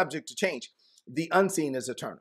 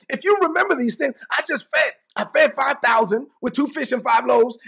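exasperated Jesus; 6 semitones higher, 4 dB louder than usual. Retold or imitated. Jesus scolding disciples, raised.

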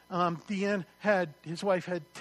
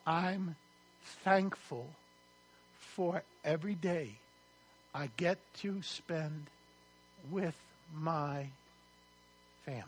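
quoting Steve softly; 3 semitones lower, 8 dB quieter than usual. Retold or imitated. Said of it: "to tell me".

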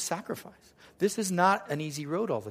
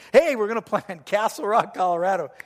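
higher, louder mock announcement to the congregation; enthusiastic announcement; 5 semitones higher, 6 dB louder than usual. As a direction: call out the big news brightly and high. Acts out announcing the church plant.

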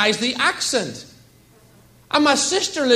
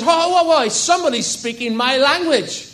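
suddenly perking up; 5 semitones higher than usual. Retold or imitated. Jesus halting the crowd on hearing a plea, perked up. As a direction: break in as if your ears just pricked up. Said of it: "he perks up and says".

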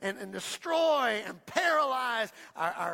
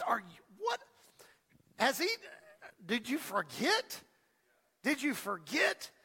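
incredulous rebuke; 4 semitones higher than usual. Acted. David rebukes scared brothers.

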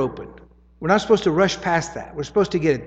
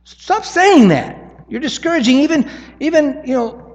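high, loud scolding; 10 semitones higher, 5 dB louder than usual. Retold or imitated. Peter scolding Jesus.

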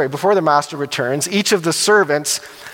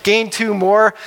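excited servant; 4 semitones higher than usual. Acted. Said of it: "he's all excited".

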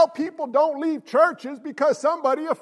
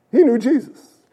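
He knew Jesus pushed out louder, falling firmly; loud answer; 2 semitones lower, 6 dB louder than usual. Shown as a demonstration. Preacher answering his own question about Paul, loudly. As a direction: declare He knew Jesus with full weight. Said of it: "What did Paul know?".

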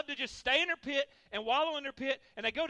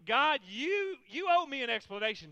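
demanding prayer; 2 semitones higher, 5 dB louder than usual. Acted. Voicing demanding prayer at God.

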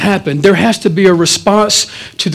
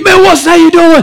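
playing it off; 8 semitones higher, 3 dB louder than usual. Playing off a missed high five.

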